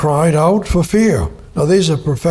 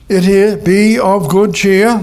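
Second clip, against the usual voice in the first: Jesus comforting; 6 semitones higher, 6 dB louder, slower than usual. Acted. Jesus quoted calming disciples.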